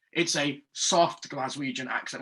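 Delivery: "soft" said slowly and leaned on; stress on soft. Shown as a demonstration. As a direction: linger on "soft" to set it against strong. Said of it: "But it's not a very strong Glaswegian accent".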